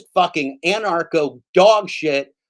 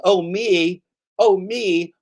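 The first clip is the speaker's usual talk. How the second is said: higher, put-on eager volunteer; mock eagerness; 3 semitones higher, 4 dB louder, much slower than usual. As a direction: sarcastically jump at the sales pitch. Mockingly answers the sponsor ad.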